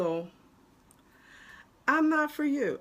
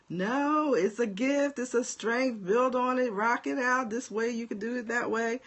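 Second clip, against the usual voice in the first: encouraging coach; 5 semitones higher than usual. Retold or imitated. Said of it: "needed someone to say".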